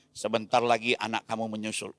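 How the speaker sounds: low, soft menacing whisper of a devil; a hint of a sinister devil, low and hushed; the devil taunting a grieving father; devil's voice. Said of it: "Setan langsung ngomong".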